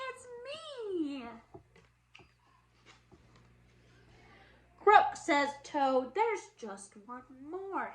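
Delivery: lively storybook read-aloud for little ones; reading to children. Acted. Teacher reading a Halloween book to her class, lively storybook voice. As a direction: read it like story time for kids.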